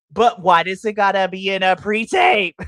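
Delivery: loud exasperated rant; frustrated. Real, not acted. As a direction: protest it loudly, fed up. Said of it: "it frustrates me".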